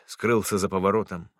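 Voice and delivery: ordinary delivery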